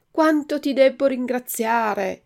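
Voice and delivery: voce alta e grata da burattino; burattino grato. A narrator's reading. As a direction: Pinocchio riconoscente, più acuto. Pinocchio ringrazia il cane. (a Alidoro, burattino grato e acuto)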